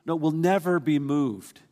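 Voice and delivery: slow, firm stress on "never"; emphatic correction. Real, not acted. Preacher correcting a watered-down promise, emphatic. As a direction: correct it firmly, leaning on "never". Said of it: "the verse is emphatic".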